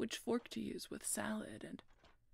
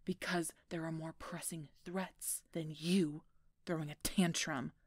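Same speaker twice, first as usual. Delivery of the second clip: louder, exasperated reprimand; stern scolding; 6 dB louder than usual. Acted. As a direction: scold a royal charge, hitting words hard. Scolding the sulking royal charge.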